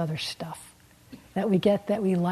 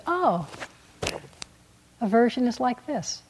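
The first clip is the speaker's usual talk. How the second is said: plain; 4 semitones higher than usual. Shown as a demonstration. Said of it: "Wise attitude is".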